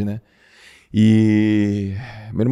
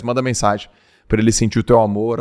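normal talking voice

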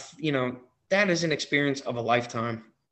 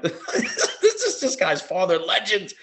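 laughing through it, higher and slow; 7 semitones higher, much slower than usual. Retold or imitated. Fan laughing as he tells the host about the legend. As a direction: chuckle out the words in delight.

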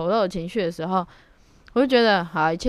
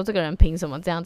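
mock indignant quote; faster than usual. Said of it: "很爱说".

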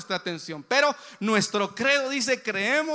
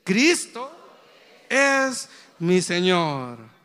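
louder, slow, confident declaration; with more faith; 5 dB louder, much slower than usual. Shown as a demonstration. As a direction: proclaim it with conviction and certainty. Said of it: "lo va a decir con más fe".

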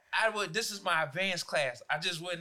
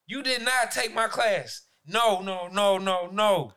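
louder, slow and emphatic refusal; firm denial; 6 dB louder, slower than usual. Retold or imitated. Teacher denying a student took his class, emphatic. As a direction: shut it down hard.

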